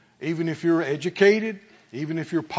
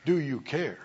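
mock complaint; 3 semitones lower, 6 dB quieter than usual. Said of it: "But don't say".

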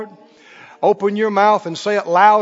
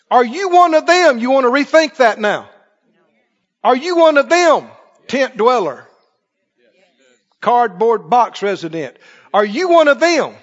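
mock interrogator; 7 semitones higher, 5 dB louder than usual. Scene: preacher plays an accuser questioning the congregation, shouting. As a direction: bark it at them like a persecutor.

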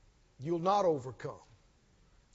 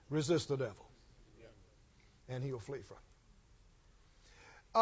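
much lower and softer, slowed right down; quiet and slow; 9 semitones lower, 9 dB quieter, slower than usual. Shown as a demonstration. Preacher quoting God's words, low and slow. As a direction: let the promise land gently and slowly. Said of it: "and then He says".

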